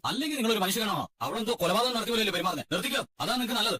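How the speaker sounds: high, heated accusing protest; angry protest. Acted. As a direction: fire back at the in-laws. Quarrel, threatening back. (ഉയർന്ന സ്വരത്തിൽ ദേഷ്യത്തോടെ)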